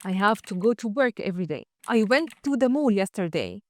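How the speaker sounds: slow, clear example sentences for learners; each sentence spaced out for copying; slow model sentences. Shown as a demonstration. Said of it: "جرب كده". (جمل نموذجية ببطء)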